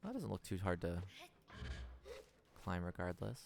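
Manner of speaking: usual speaking voice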